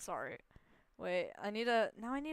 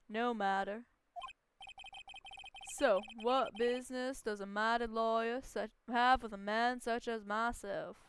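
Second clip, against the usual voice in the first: a hint of a snobbish businessman, louder at the end; lightly voiced haughty tycoon; 6 dB louder than usual. CEO sneering at the lawyer's vocabulary, lightly haughty. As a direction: look down your nose, lightly.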